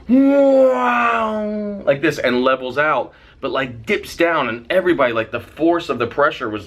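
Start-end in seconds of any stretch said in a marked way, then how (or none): 0.1-1.8 high, loud engine wail tailing off; imitated plane swoop. Storyteller showing the plane levelling out, loud imitated swoop. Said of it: "the plane goes".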